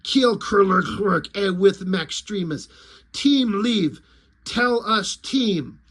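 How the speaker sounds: slow broken alien demand; a dim alien giving orders, choppy; alien lizard. Retold or imitated. Lizard interrogating Popo, slow broken speech. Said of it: "So Lizard says".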